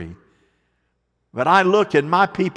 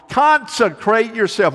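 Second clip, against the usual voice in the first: congregation repeating; 5 semitones higher than usual. Real, not acted. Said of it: "Say that with me".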